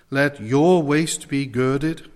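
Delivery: slow, with weight on "your"; emphatic YOUR. Shown as a demonstration. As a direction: lean firmly on "your", drawing the phrase out. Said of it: "is set in the emphatic".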